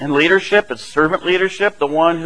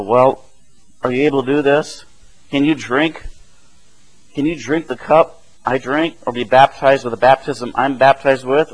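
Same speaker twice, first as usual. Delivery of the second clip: gently lowered, measured questioning; kindly; 3 semitones lower than usual. Retold or imitated. Jesus questions his fickle disciples, voiced kindly and low. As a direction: ask kindly, with pauses between the questions. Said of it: "And so Jesus very kindly".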